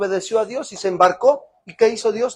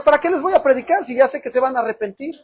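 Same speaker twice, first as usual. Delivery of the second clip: grumbling Jonah; 8 semitones higher, 5 dB louder than usual. Retold or imitated. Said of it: "Porque Jonás decía".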